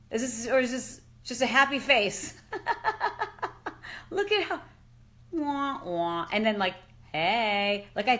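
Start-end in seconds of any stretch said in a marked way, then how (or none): 2.4-4.1 high laugh. Real, not acted. Laughs at happy face.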